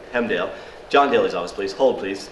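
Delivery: routine switchboard patter, mock English; bad English accent. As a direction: answer calls in a fake English accent. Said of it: "do a bad English accent".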